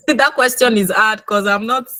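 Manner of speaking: real amused laugh mid-sentence. Real, not acted. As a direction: chuckle it off as you speak. Laughs off a hard question.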